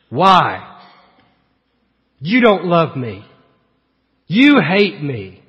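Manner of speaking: lightly acted childish accusation; spoiled child. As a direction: complain like a child treated unfairly. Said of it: "Just like a spoiled child".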